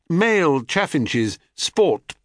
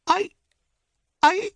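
frightened stutter. Acted. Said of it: "Well may you stutter and stammer".

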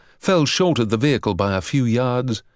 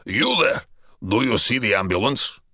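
yelled. A narrator's reading.

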